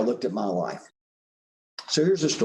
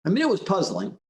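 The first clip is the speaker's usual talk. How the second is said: put-on higher-pitched kid voice; little boy explaining; 8 semitones higher than usual. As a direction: imitate a child starting his explanation to Dad. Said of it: "And the boy goes".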